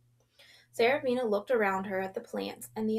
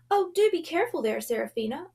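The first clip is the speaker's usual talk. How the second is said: higher and louder, panicked dismay; panicked cry; 5 semitones higher, 5 dB louder than usual. A narrator's reading. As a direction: cry out in alarm as something is about to fall. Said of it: "cried out in panicked dismay".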